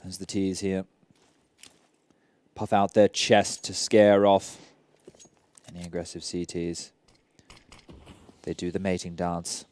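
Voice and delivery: lightly voiced Attenborough narrator; nature documentary. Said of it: "David Attenborough stuff".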